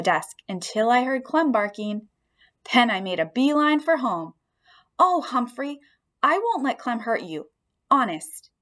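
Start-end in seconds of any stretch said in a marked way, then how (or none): 5.0-8.5 gently reassuring. Acted. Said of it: "Miranda assured me as she gently".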